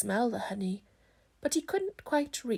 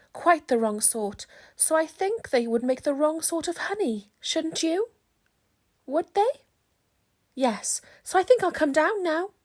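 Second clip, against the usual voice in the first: higher, louder bear voice, earnest; Pooh voice; 6 semitones higher, 5 dB louder than usual. Acted. Pooh tells Christopher Robin the bees are wrong. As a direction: announce it like a bear with a big decision. Pooh's voice, held.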